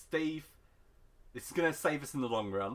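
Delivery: ordinary talk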